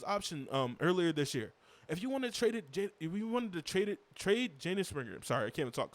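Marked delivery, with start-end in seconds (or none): 1.9-5.1 frustrated. Real, not acted. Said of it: "I'm frustrated".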